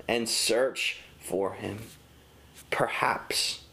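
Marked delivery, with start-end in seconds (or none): 2.7-3.6 whispered perhaps. Acted. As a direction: breathe out Perhaps as a hushed aside.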